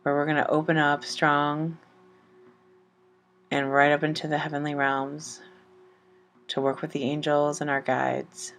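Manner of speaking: gentle chakra meditation over music; guided meditation. Acted. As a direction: ease the listener into calm, one breath at a time.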